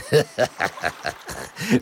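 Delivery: smug villain chuckle; a sly evil laugh; wizard's gloating laugh. A narrator's reading. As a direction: laugh at the fool.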